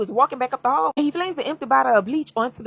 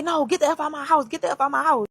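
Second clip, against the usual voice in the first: higher-pitched, insistent, without real shouting; retold angry order; 5 semitones higher than usual. Woman throwing her man out of her house, mildly angry. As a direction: act her ordering him out.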